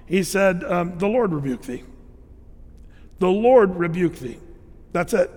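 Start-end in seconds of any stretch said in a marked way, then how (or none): 1.0-4.4 calm, even rebuke, no drama; calm, unshaken authority; very calmly. Retold or imitated. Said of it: "very calmly, no gyrations, no shaking".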